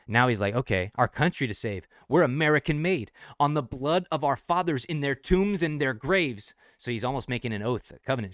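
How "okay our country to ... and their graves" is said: war cry. Shown as a demonstration. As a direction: swear it like a battle oath to the nation. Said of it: "It's kinda like a, a war cry".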